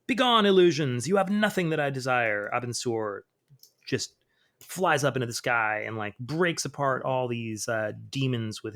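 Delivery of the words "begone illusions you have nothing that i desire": loud, high command to banish illusions; defiant cry. Acted. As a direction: shout down the demons firmly. Hero rejecting demons' temptation.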